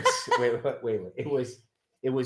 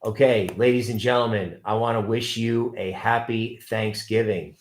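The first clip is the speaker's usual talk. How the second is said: show sign-off; 2 semitones higher than usual. Acted. Stream sign-off to audience.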